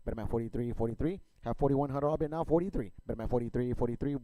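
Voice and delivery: rapid rhythmic auction chant; auctioneer. Real, not acted. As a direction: rattle off bids like an auctioneer. Auction chant bidding calls.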